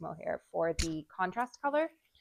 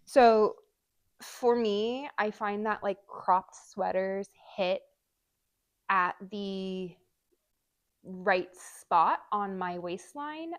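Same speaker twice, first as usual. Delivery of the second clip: muffled; 4 dB louder, slower than usual. Real, not acted. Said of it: "I'm covering the mic for a moment".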